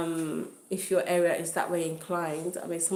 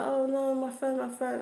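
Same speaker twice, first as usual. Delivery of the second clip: high-pitched mock lament; imitating crying victim; 6 semitones higher than usual. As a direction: mimic tearful distress without real crying. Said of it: "And she was crying, crying, crying".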